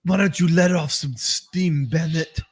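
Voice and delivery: lightly voiced Arnold quip, slow; a hint of Schwarzenegger deadpan; slow deadpan one-liner, lightly done; Arnold impression. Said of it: "And he's like".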